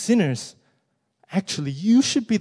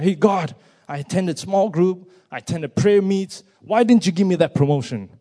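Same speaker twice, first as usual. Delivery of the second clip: louder and higher, aggrieved whine at God; indignant complaint; 4 semitones higher, 8 dB louder than usual. Retold or imitated. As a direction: shake a fist at God in protest. A complainer shaking his fist at God.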